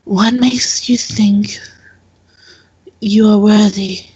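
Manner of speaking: slow, lightly voiced stern questioner; stern challenge. Temple woman testing whether the visitor is worthy, slow and mildly stern. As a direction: mildly challenge them, stretching the words out.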